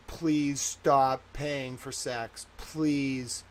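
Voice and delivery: slow, softening pleas that fade away; slow begging plea. Real, not acted. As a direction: plead with them, each word drawn out. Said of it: "but I'm just begging you".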